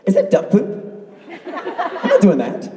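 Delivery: slow, breathy laughing disgust; disgusted refusal. Retold or imitated. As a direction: recoil at the duck poop. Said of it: "I would be like this".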